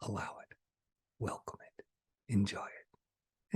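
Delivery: soft, breathy whisper. Acted. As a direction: gently release them. Soft guidance to viewers.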